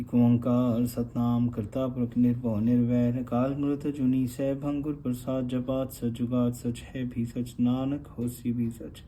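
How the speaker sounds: slow, devout recitation of the Mool Mantar; prayer recitation. Real, not acted. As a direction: recite it as a prayer to open class. (धीमा, श्रद्धा भरा पाठ)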